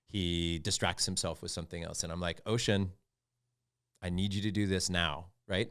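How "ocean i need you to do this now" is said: steady, patient firmness; calm and nice. Retold or imitated. Father telling his son to shower, calm. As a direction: keep it calm while insisting. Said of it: "I'm still nice and I'm still calm".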